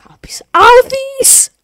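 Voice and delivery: slow, high breathless whisper; high, hushed and slow. Acted. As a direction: whisper the name in awe, slowly. Fumbling the name while voicing.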